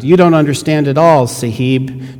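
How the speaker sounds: lightly voiced diver pleading; pleading old diver. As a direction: make him understand, urgently.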